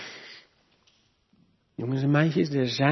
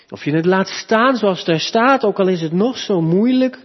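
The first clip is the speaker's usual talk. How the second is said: higher, louder sermon voice, driving each point home; fervent preaching; 4 semitones higher, 5 dB louder than usual. Acted. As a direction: preach it with growing conviction. Preekt met volle kracht. (vurig preken, hoger en luider)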